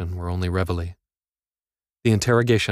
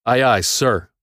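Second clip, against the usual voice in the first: a brisk, slightly raised military reply; crisp aye aye sir; 4 semitones higher, 5 dB louder, slower than usual. Acted. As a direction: snap it out louder, like a drilled recruit. Inmate answering drill officers crisply.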